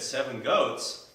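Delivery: words stretched out slowly; slow drawn-out. Acted. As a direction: drag out each word. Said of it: "started thinking".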